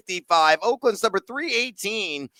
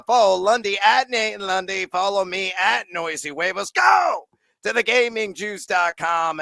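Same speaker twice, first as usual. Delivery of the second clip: shouting; 3 semitones higher than usual. Real, not acted. Shouted podcast sign-off plugs.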